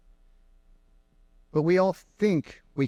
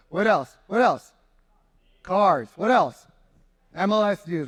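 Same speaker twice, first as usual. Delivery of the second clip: calling out; 3 semitones higher, 3 dB louder, slower than usual. Real, not acted. Calling for answers from crowd.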